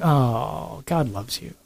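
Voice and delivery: soft, slow, sweet-talking devil on your shoulder; a quiet tempter whispering it's no big deal; coaxing little evil voice. Retold or imitated. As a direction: lull them with a soothing, sly tempter voice. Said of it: "that little voice is on your shoulder going".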